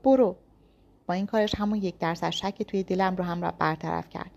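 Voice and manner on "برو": loud strained go; forced out. A narrator's reading. Wounded Yas forcing out go, straining. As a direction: push the word out through pain. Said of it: "به زور گفت".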